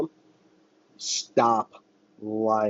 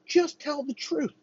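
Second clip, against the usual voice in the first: higher, slow gentle coaxing; soothing parent; slower than usual. Pretend. Parent urging a child to confess, slow coaxing. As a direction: coax slowly like a patient parent. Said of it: "Just like a child with their parent".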